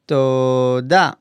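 Toda said slowly and clearly, stress on da; slow clear Hebrew model word. Shown as a demonstration. Teacher modeling Toda for students, slow and clear. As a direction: model Toda carefully for learners. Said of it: "thank you is toda".

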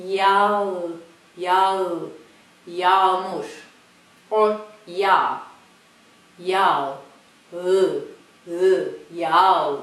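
yağ with the a stretched; Turkish soft g. Shown as a demonstration. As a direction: say yağ slowly, vowel held. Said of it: "we hear the difference".

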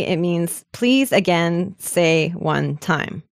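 slow, word by word; slow literal read. Shown as a demonstration. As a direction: spell it out word by word.

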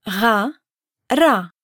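Ga throaty at the back, ra rolled at the front; throaty versus rolled. Shown as a demonstration. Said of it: "so we can compare".

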